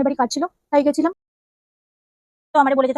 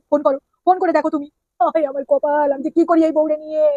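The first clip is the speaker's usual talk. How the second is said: exasperated husband. Acted. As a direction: sigh it out at the silly wife. Husband exasperated by suspicious wife.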